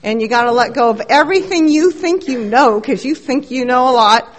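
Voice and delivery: lightly voiced bossy older man, rattling off orders; mild imitation of a loud old-timer sponsor. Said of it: "he does not stop talking".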